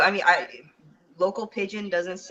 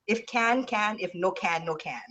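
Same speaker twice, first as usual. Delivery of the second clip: imitated Hawaiian pidgin saying; local pidgin; 2 semitones higher than usual. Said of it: "what is it everybody say, says".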